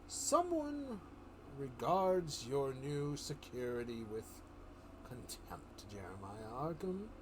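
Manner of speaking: a hint of the Joker, slow and menacing. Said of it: "Joker says".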